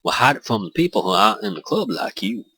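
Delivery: put-on second go at a southern English accent; retried accent. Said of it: "that's not an accent of any kind".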